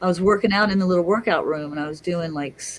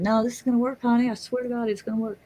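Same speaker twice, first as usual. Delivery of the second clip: doctor reassuring; 6 semitones higher, faster than usual. Retold or imitated. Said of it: "And he said".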